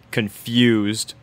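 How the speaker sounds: plain reading voice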